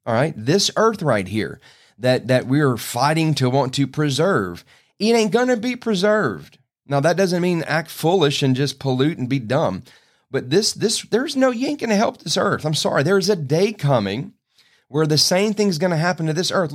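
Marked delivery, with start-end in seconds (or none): 5.0-16.7 fervent preaching. Real, not acted. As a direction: pitch jumps much higher, urgent and insistent. Preacher warns earth will burn.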